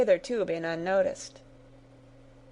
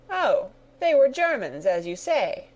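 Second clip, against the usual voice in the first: vexed cry; 4 semitones higher, 3 dB louder than usual. Acted. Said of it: "cried the colonel".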